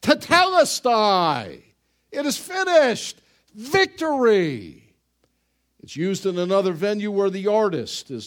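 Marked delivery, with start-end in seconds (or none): 0.0-4.9 slow, loud victory shout, much higher on "finished"; triumphant yell. Acted. Conquering general yelling victory over the routed enemy. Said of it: "And he yells".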